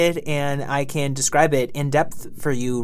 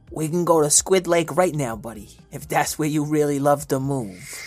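bunny voice. Acted. Bunny character voice in story.

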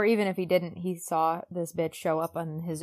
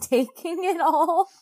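laughing; 9 semitones higher, 8 dB louder, slower than usual. Real, not acted. Laughing while telling.

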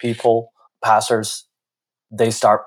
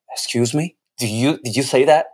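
mildly incredulous, pitched a little higher; retold shock, questioning in disbelief; 3 semitones higher than usual. Telling how he questioned the pastor's wife, shocked. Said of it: "And I was so shocked".

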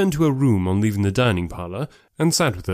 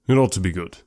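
reserved gentleman; 3 semitones lower than usual. Acted. Darcy's reply voiced low.

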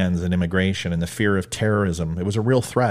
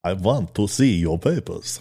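slow, deliberate mock German accent; badly faked German officer, drawn out; 3 semitones lower, slower than usual. Host playing an officer who asks to see papers, slow mock German accent. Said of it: "what's wrong with my German accent".

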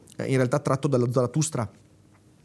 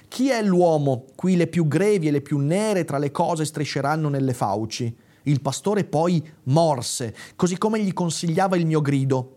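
intense literary reading, a little raised; dramatic reading; 2 semitones higher than usual. A narrator's reading. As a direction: read Nietzsche like a tale you live. Reads Zarathustra passage aloud. (lettura drammatica di un testo)

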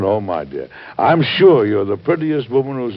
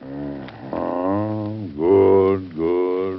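husband half-listening to his wife, grunting replies; distracted grunting; 3 semitones lower, much slower than usual. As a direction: grunt along without really listening. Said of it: "you haven't heard a word".

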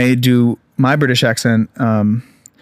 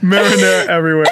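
higher mimicked Brooklyn accent; hammed-up Brooklyn accent, pitched up; trashy Brooklyn woman; 4 semitones higher, faster than usual. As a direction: echo it as a trashy Brooklyn gal. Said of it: "like, a trashy".

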